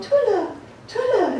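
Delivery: mock stressed shrill voice. Retelling how a father called for help while caregiving, imitating a high-pitched stressed voice. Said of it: "in this high-pitched voice because he was so stressed".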